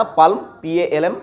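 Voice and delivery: पल्म said slowly, then spelled पी ए एल एम; spelled-out pronunciation. Shown as a demonstration. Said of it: "तो क्या pronounce करोगे?". (पल्म धीरे बोलकर पी ए एल एम spell करो)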